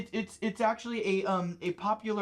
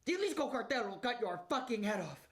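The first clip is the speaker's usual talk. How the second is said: put-on Mexican accent; 2 semitones higher, 4 dB quieter than usual. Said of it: "doing a mid-Mexican accent".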